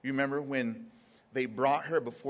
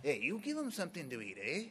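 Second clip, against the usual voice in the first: casual Jesus; 2 semitones higher, 5 dB quieter, faster than usual. Retold or imitated. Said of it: "I imagine him like".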